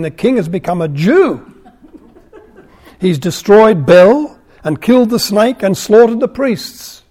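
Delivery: amused read, laughing through the lines; chuckling at the absurd complaint; laughing while reading. Real, not acted. Reader laughs at conspirators' complaint.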